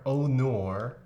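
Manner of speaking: "oh nor" with mock Australian vowels; Australian accent. Streamer showing how no becomes nor, mock Australian. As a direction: put on an exaggerated Australian "no". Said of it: "If no becomes nor".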